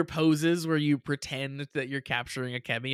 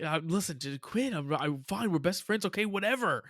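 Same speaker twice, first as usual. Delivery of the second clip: flustered, rising higher as it goes; mock exasperated concession; 5 semitones higher than usual. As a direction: imitate someone grudgingly giving in, pitch climbing. Acting flustered character giving in.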